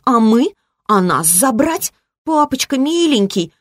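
put-on high, pleading little-girl whine; frightened child whining. A narrator's reading. Ancient girl begging daddy for rescue, frightened childish whine. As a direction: beg like a scared child, pitched high. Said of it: "тоном перепуганного ребёнка законючила она".

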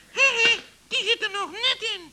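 fast, chuckling relief. Acted. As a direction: laugh the words out quickly as you squeeze in. Joris squeezes in, chuckling.

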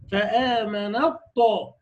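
الطاء with full emphatic velarized ṭ; slow emphatic recitation. Shown as a demonstration. Teacher showing full emphatic ṭa, slowly. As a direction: hold الطاء heavy, slowly. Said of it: "بالإطباق بتاعها والتفخيم كده،".

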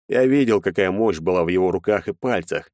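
usual speaking voice

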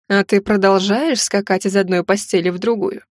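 a hint of a sinister villain; lightly voiced menacing husband; dark lord. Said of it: "Зловещий голос".

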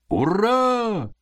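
high cheering shout. Acted. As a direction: shout hurrah. Workers cheer.

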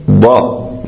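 ض said as a plain dh-like ضاء; teacher demos the non-Arab ضاء for ض; mispronounced dad. Shown as a demonstration. Teacher showing students the wrong ض sound. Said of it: "ينطقها مثلًا ضاء".

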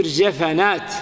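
جفنات said jafanāt, short a after the f; vowel copied over. Shown as a demonstration. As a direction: say جفنات with the f opened by an a. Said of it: "تجمعها بالإتباع". (جفنات بفتح الفاء إتباعًا للجيم)

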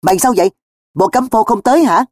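high-pitched, startled questions; taken aback and wondering. Acted. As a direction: ask in alarmed puzzlement. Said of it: "Cường giật thót".

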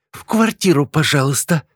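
high-pitched strict schoolteacher voice; crisp order from a teacher; stern teacher. A narrator's reading. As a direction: herd them inside firmly but politely. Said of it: "строгим тоном подогнала нас учительница".

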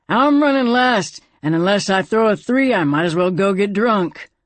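the cougar pressing to go first. A narrator's reading. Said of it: "the cougar said".

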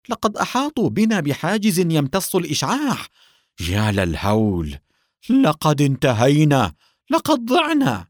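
high, loud cries of despair; extreme panic. A narrator's reading. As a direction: cry out as if all is lost. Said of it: "يصيح بفزع بالغ". (صياح بفزع بالغ)

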